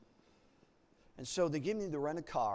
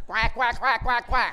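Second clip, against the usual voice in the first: loud, high laughing quacks; duck quack; 8 semitones higher, 15 dB louder than usual. Retold or imitated. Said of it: "a little quack like a duck".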